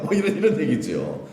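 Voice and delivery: ordinary delivery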